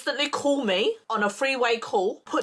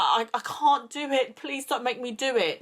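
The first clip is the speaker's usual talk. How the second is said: retold plea, raised in pitch; begging; 4 semitones higher than usual. Begging a friend for help, retold pleading. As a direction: plead to be let off, mildly desperate. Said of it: "I was, like, begging him".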